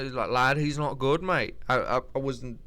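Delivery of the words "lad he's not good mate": a hint of Leon's accent. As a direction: imitate a Leon accent, lightly. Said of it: "That's like a Leon accent".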